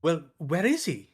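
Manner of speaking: a light Hugh Grant, charmingly befuddled. Pretend. Lightly voiced Hugh Grant as Batman, lost and befuddled. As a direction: play it like a flustered English gentleman. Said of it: "Batman is played by Hugh Grant".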